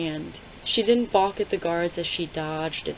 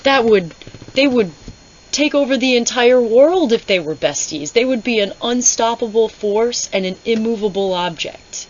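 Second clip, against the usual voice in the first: louder, higher mock panic; panicked Dorian impression; 4 semitones higher, 6 dB louder than usual. Reviewer voicing Dorian, mock alarm about the two women's friendship. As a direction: ham up a jealous prince's alarm. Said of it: "Or is he like".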